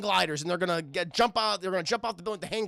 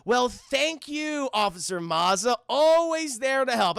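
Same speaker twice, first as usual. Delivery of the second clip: smug gloating; 3 semitones higher, 4 dB louder, slower than usual. Retold or imitated. Villain gloating at the cop.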